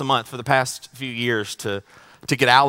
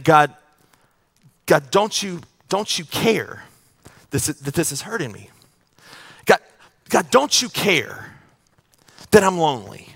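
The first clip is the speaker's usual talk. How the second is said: pleading cry to God, building louder and higher; anguished prayer; 4 semitones higher, 5 dB louder than usual. Pretend. Pastor voicing a hurting believer crying out to God, pleading and building. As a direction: beg God, rising to a cry.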